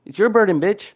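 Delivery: high, loud angry shouting, slowed on key words; a heated debater losing his temper at his opponent; furious yelling. Real, not acted. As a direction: yell it at him, demanding he prove it. Heated debate, demanding an answer.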